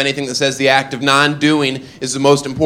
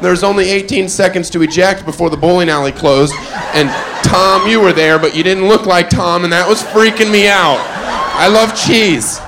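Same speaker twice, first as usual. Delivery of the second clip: rising, louder, babbling manager, slowing at the end; frantic manager; 5 semitones higher, 3 dB louder than usual. Retold or imitated. Bowling alley manager running out, rambling at him. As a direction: ramble nonsense like a panicked manager.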